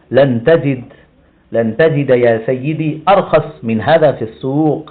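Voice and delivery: slow, deliberate shopkeeper sales line, lightly voiced; shopkeeper's pitch. Shown as a demonstration. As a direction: read it like a shopkeeper assuring a customer. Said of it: "اس طرح بولتے ہیں دکاندار". (دکاندار کی طرح آہستہ، ٹھہر ٹھہر کر)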